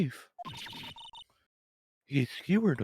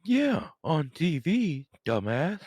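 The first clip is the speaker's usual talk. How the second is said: slow condescending retort; sarcastic; slower than usual. Acted.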